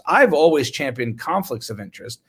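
mock-earnest sarcastic claim. Doctor mocking a journal letter to viewers, sarcastic. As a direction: say it straight, meaning the opposite. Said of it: "I'm being sarcastic".

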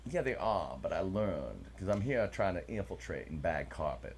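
put-on Southern accent. Host explains himself as carpetbagger, mock Southern accent. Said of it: "this whole episode in Southern accents".

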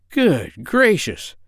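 high, drawn-out exclamation; astonished cry. A narrator's reading. Doctor finds the parrot in his pocket, crying out amazed. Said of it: "cried the doctor".

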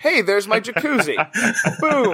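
giggling out the imagined writer's line; a laugh breaking through the mock quote. Cracking up while mocking the lazy writer who names a character.

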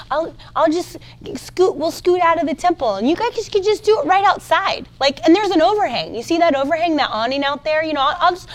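hammed-up eager-to-please offer; mock helpfulness. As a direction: scramble to be helpful and nice. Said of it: "picturing Jesus, like, saying".

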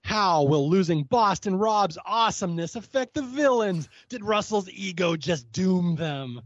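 slow, lightly hammed-up host voice; mock announcer building drama; a hint of a dramatic TV host; Probst recap voice. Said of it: "this is where he goes".

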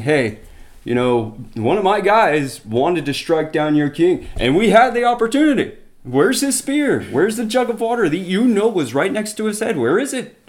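David taunting the careless general. Retold or imitated. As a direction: rub it in that the spear is gone.

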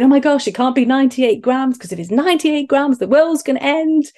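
high mock-panic parody; taking the mickey. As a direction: mimic mum's silly panic back at her. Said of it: "taking the mickey out of me by going".

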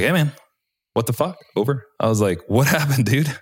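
high startled outcry, laughing through it; shocked. Retold or imitated. Pilot shocked at the scratched aircraft, high disbelieving outcry. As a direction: blurt it out in disbelief.

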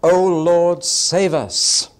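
loud prayerful plea; cry out. Retold or imitated. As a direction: cry out to the Lord for rescue. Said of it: "is the cry".

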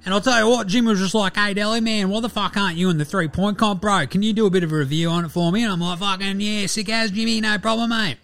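lively, sweary, self-promoting sports rant; Delly. Acted. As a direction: rant like a cocky player snubbed from the contest. Voices Delly's guest review segment.

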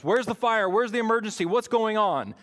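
loud, urgent questions from the firemen; firemen demanding answers. Retold or imitated. Fireman shouting questions at the kids, loud and urgent. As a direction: call it out like a fireman on the scene.

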